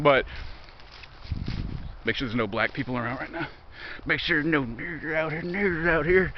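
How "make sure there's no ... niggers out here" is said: mock-secretive. Mock secretive check before a joke.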